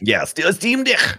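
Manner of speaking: high, put-on Kiwi Steam Deck; playful Kiwi imitation of Steam Deck; mock New Zealand accent. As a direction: Steam Deck with a Kiwi vowel, "stim dick". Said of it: "you have to call it a Steam Deck".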